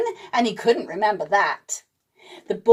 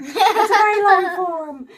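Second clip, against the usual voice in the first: laughing; 8 semitones higher than usual. Real, not acted.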